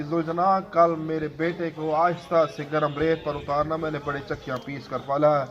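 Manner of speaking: mournful preaching recital, rising in grief; majlis narration. Acted. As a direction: recite the tale to move mourners to tears. Zakir narrates Karbala majlis. (غمگین مجلس خوانی)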